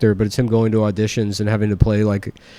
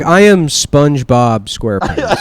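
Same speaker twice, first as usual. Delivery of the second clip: mock proud reveal; slower than usual. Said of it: "He's like".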